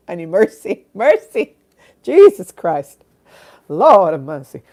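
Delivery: hammed-up cry for mercy; loud pleading. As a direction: beg the heavens, over the top. Begging for mercy, half laughing.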